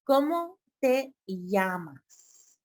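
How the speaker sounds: ¿Cómo te llamas? said slowly again; slow teaching. Shown as a demonstration.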